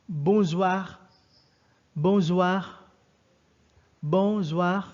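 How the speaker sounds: teacher models the evening greeting for the class; French bonsoir. Shown as a demonstration. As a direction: say "bonsoir" the French way, three times.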